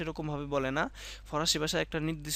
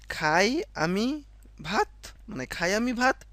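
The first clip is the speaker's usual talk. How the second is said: slow demo; 5 semitones higher, 4 dB louder, slower than usual. Shown as a demonstration. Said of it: "বলতে হবে".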